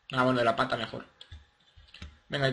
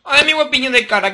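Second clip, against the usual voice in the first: cooing, much higher and louder; baby talk; 9 semitones higher, 8 dB louder than usual. Acted. Player cooing over a cute little creature, baby talk.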